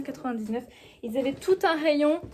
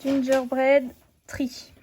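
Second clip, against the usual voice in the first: slow, louder, hammed-up English accent; 5 dB louder, much slower than usual. Shown as a demonstration. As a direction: show off an English accent, drawing the words out. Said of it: "mon accent hyper anglais". (accent anglais exagéré, lent et appuyé)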